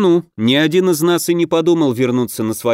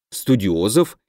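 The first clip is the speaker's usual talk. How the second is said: удивлённый переспрос с подъёмом; переспросить с лёгким удивлением; удивлённо; 3 semitones lower, slower than usual. Acted. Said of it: "удивился Свелин". (удивлённо переспрашивая)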